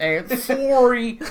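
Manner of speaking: slow, hammy Canadian "eh, sorry"; Canadian accent. Pretend. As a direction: drag out the Canadian eh. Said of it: "in my best Canadian accent".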